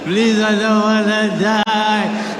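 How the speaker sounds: slow, sing-song begging; wailing plea. Retold or imitated. Begging the cop, slow sing-song wail. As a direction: draw it out in a whiny wail.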